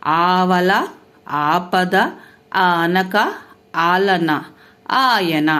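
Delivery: ఆవల, ఆపద, ఆనక with the first vowel ఆ drawn out; long vowel words. Shown as a demonstration. Teacher demonstrating long ఆ in words, vowel held. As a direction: hold the opening ఆ in each word. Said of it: "ఆ పలికేటప్పుడు ఎలా పలుకుతాము".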